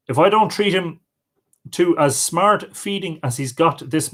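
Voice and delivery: expressive storyteller with rising and falling pitch; folk tale narration. Acted. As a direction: read an old tale aloud, lively dialogue included. Reads a folk tale aloud.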